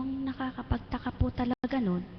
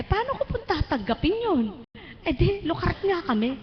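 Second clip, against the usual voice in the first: higher, louder, half laughing; excited and laughing; 7 semitones higher, 5 dB louder than usual. Real, not acted. Recalling being called crazy, higher and laughing. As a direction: lift the voice in amused protest.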